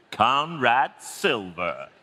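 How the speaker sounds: slow, smooth movie-star delivery; leading man. Acted. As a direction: drawl the name like a film star. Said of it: "You sound like a movie star".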